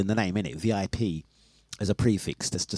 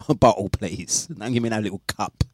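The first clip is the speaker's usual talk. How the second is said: put-on demanding order in a made-up accent; Maureen's fictitious accent. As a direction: insist on a bottle in a mock accent. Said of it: "her accent is this".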